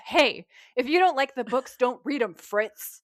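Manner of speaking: mock angry fan. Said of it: "Becky is shooting death stares at Hookman".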